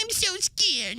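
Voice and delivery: high soft fake-fear whimper; mock scared whimper. Host mocking cowards with a fake frightened whimper. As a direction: pretend to cower, then sneer.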